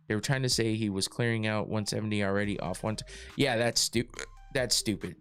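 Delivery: talking through hiccups; hiccuping between words. Real, not acted. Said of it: "I got the hiccups again".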